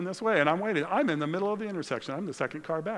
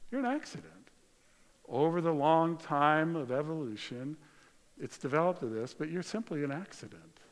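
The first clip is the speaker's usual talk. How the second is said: deceiving spirit. Acted. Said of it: "thoughts from deceiving spirits who tell you".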